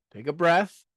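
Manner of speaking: ordinary talk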